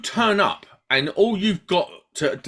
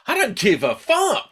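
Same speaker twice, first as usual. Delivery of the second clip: laughing; 12 semitones higher, 3 dB louder than usual. Real, not acted. Laughing defiance.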